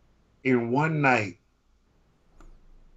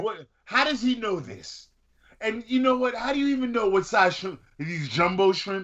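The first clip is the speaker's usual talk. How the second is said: much higher, rapid disbelief; high-pitched baffled questioning; incredulous; 9 semitones higher than usual. Real, not acted. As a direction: pitch way up, can't believe it. Baffled by shrimp-eating claim.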